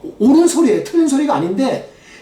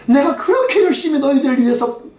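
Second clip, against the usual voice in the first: a hurt parent's complaint to the children, voiced a little higher; lightly played wronged parent pleading; aggrieved parent; 3 semitones higher than usual. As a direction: pour out the unfairness of it to your kids. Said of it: "막 억울해하면서 하는 거".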